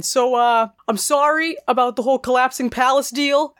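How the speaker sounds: a hint of Shia LaBeouf's awkward mumbling apology; Shia LaBeouf impression. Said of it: "That's a really good Shia LaBeouf impression".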